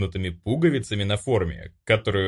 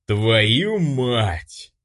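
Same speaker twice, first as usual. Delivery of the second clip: stunned curse; 2 semitones higher, 4 dB louder than usual. A narrator's reading. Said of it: "только и смог произнести я".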